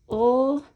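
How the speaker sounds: ul as a sustained "l" sound alone; individual sound. Shown as a demonstration. Teacher breaking "lee" into individual sounds, isolated sound. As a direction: hold ul as the bare sound of letter L. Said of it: "break that down into its individual sounds".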